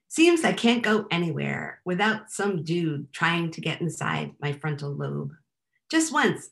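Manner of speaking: measured, wry comic poem recital; poetry reading. Acted. Poet complains to an audience about her admired brain, wry poem reading. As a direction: read it as a poem, each phrase set apart.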